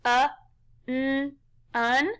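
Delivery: "uh, n" as separate short sounds, then blended "un"; sounded out. Shown as a demonstration. Teacher tapping along with pupils on the first syllable, sounded out. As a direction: tap out "uh" and "n" with pauses, then say "un". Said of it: "Tap 'em out with me".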